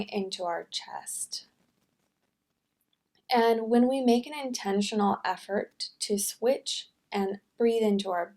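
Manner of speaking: soft, unhurried meditation voice; guided meditation. Real, not acted. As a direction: ease them gently into calm breathing. Leads a breathing meditation.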